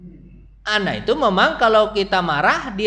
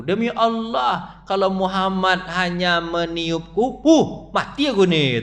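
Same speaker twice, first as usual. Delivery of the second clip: fearful quote; slower than usual. Retold or imitated. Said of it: "kata dia kan".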